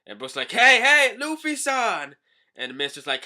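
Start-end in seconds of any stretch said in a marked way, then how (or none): 0.5-2.2 high, loud call after someone leaving. Pretend. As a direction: yell to stop a friend swimming off. Brook calls after swimming Luffy.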